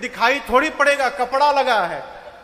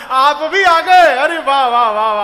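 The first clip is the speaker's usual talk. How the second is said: higher, louder, laughing mock greeting; sarcastic mocking welcome; 5 semitones higher, 6 dB louder than usual. Sisters mock Sati on her arrival, laughing sarcastic welcome. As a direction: sneer through a laugh, wah wah. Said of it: "वो हम पर व्यंग कर रहा है".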